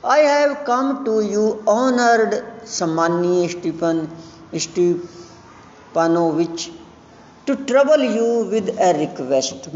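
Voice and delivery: a hint of a jittery young man asking a favour; nervous suitor. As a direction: plead shyly, stretching every word. Lomov reads his request in role.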